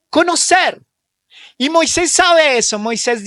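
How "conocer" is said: rising emphatic answer. Real, not acted. Preacher prompts congregation fill-in.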